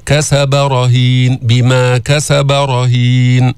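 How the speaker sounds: light كسب, then a heavy ر in رهين; tafkhim of ر. Shown as a demonstration. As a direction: chant كسب رهين, thickening only the ر. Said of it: "التفخيم بالراء لأنها مفتوحة". (تفخيم راء رهين بعد ترقيق كسب)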